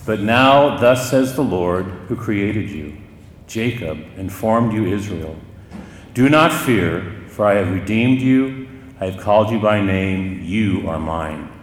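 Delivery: slow, deliberate scripture recitation; scripture proclamation. Acted. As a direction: proclaim it slowly, phrase by phrase, as God's word. Recites the scripture as spoken by Jesus.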